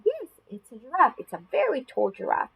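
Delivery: put-on lifted, child-directed praise; encouraging reply. Shown as a demonstration. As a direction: confirm it brightly for a little one. Demonstrates her reply to a child.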